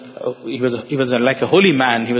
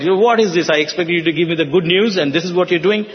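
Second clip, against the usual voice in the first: mother's angry scolding, lightly acted; mild retold shout; 3 semitones higher, faster than usual. Mother to astrologer uncle over the horoscope, mildly shouting. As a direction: scold indignantly in a slightly raised pitch. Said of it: "she shouted".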